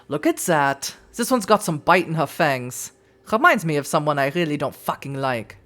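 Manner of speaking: put-on German-accented sizing-up. Kaiser remarks on the newcomer's bite, German accent. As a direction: size her up in a German accent. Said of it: "I'm gonna do a German accent".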